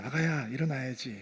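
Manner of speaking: put-on soft, low voice close in a child's ear; hushed parental wake-up call; tender murmur. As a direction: lovingly wake a sleeping child, very gently. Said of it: "여전히 그럴 때가 있어요".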